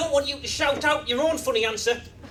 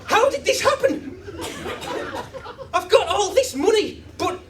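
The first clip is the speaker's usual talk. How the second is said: anguished Richard Branson; 6 semitones higher than usual. Acted. The joke's Branson mourning half a dead cat, hammed-up anguish. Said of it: "And Richard's going".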